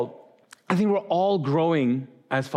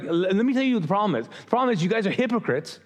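mildly heated retelling, pitch a bit higher; fired up; 4 semitones higher than usual. Retold or imitated. Preacher paraphrasing Jesus scolding hypocrites, mildly fired up. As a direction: lay out the accusation with animated insistence. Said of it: "he's fired up. He's like".

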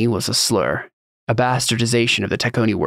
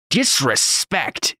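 slow, high, scornful "Disrespect?"; outraged, mocking repeat; incredulous echo; 4 semitones higher, much slower than usual. A narrator's reading. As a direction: spit the word back, drawn out. Hothead throws the word back.

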